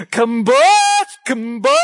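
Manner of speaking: half-hearted farm call; calling the cows. Retold or imitated. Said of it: "in a loud voice".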